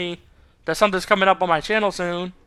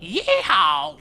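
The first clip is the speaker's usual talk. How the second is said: higher Southern whoop; hammed-up Southern accent; mock Southern accent; 4 semitones higher than usual. Southerner making fun of own accent, mock Southern. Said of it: "make fun of Southern accents".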